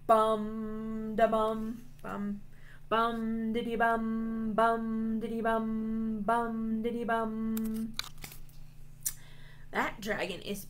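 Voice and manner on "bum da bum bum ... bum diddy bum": steady humming bum-diddy-bum; bass sound. Pretend. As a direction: imitate a bass line rhythmically. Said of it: "a bass. And it goes".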